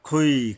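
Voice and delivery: "খৈ" with a full, rounded kh from the throat, like "খ"; thick kha. Shown as a demonstration. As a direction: say "খৈ" heavy, with no open a. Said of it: "খ হবে". ("খৈ"-এর খ মোটা করে)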